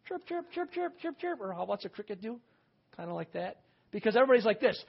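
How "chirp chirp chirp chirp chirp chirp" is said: imitating crickets. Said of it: "I can hear crickets chirping".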